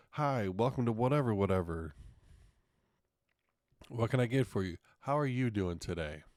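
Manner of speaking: perky drive-thru worker. Retold or imitated. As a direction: sing out the scripted welcome. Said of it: "drive-thru worker greeting".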